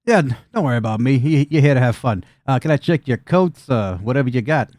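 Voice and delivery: well-dressed goblin host. Acted. Goblin at the desk offering to check coats, easygoing host. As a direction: play the easygoing club attendant.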